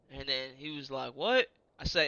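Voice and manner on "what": loud, high rising question; incredulous what. Retold or imitated. Sergeant major told to shut up, loudly incredulous. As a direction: re-enact an affronted double-take. Offended superior reacts to insult.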